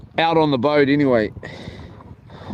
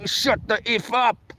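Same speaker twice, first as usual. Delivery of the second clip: softer, under the breath; a quiet mock mutter at the wife; muttered aside; 5 semitones higher, 5 dB quieter than usual. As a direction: hiss it off to the side after the sweet goodbye. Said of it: "I was like".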